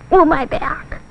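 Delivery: lightly voiced aching giraffe; giraffe's complaint. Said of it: "they sounded like this".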